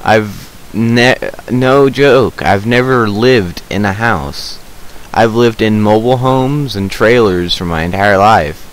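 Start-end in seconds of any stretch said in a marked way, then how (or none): none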